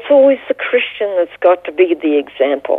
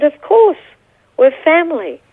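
glad assent; 8 semitones higher than usual. Retold or imitated. Retold glad assent from young man.

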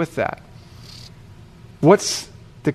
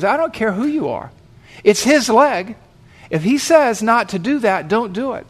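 raised-pitch, insistent scolding; mildly angry retort; 5 semitones higher than usual. Retold or imitated. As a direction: act out an indignant bystander laying down the law. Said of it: "he seemed a little bit angry".

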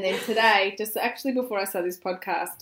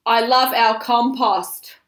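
slow, loud mock yell of "I love our compost"; husband's hammed-up declaration; 3 semitones higher, 9 dB louder, slower than usual. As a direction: bellow it out through a laugh. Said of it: "he'll yell out something".

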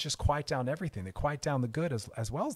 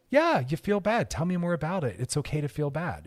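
validating; 2 semitones higher, 4 dB louder than usual. Shown as a demonstration.

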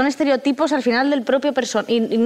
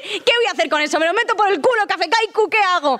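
mock outrage; 6 semitones higher than usual. Real, not acted. Mock rant at brand.

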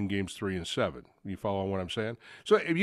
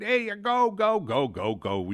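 excited cheering; 10 semitones higher, slower than usual. Retold or imitated. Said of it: "We said".

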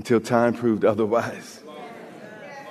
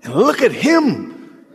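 biting tone; 8 semitones higher, slower than usual. Retold or imitated. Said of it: "There's, there's a bite in, in her tone".

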